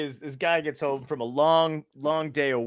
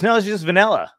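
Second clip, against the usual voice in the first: penguin's reply; 7 semitones higher, 7 dB louder than usual. Retold or imitated. Penguin answers the mechanic.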